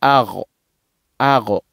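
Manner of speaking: "agro" with a throaty gh in the middle; gh sound. Shown as a demonstration. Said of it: "donc on dit agro".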